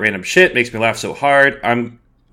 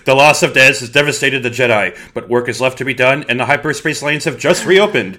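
dramatic recap. Acted. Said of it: "an intro you would like to do".

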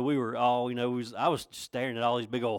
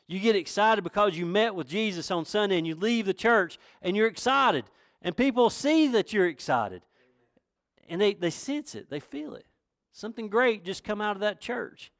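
raised, emphatic sermon delivery; fervent preaching; 7 semitones higher, 4 dB louder than usual. Real, not acted. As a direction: press each phrase home to the congregation. Preaches with force.

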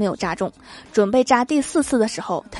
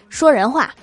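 louder, mildly cross retort; irritated; 3 semitones higher, 5 dB louder than usual. Retold or imitated. Sister fed up with brother's grand wording, irritated. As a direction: cut in with mock annoyance. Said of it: "我没好气地说".

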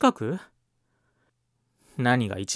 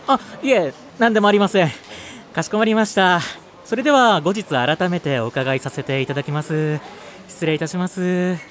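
customer service voice; 4 semitones higher than usual. Acted. Back on phone call.

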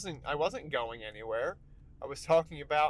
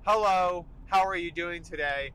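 mock chirpy texter; 7 dB louder than usual. Mocking a multi-message texter.

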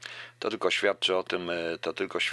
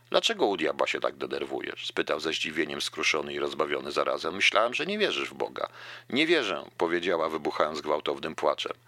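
reading a novel aloud with voiced dialogue; lively novel reading with lightly voiced characters; story narration. A narrator's reading. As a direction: read the passage like an audiobook. Reads Catch-22 excerpt aloud.

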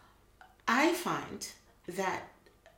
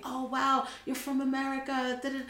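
high, loud and fast; eager local; 7 semitones higher, 5 dB louder, faster than usual. Retold or imitated. South African stranger asking to see her passport, eager. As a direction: ask eagerly like a curious local. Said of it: "It was the same thing".

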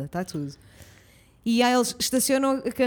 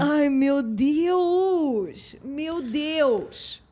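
drawn out, very slow disbelief; long amazed meu Deus; shocked; much slower than usual. Real, not acted. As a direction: stretch every word in shock. Reacting to the crazy story.

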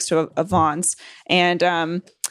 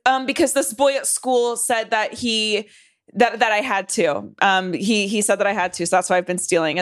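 put-on little girl lying. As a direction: act a kid making excuses. Child making up lie.

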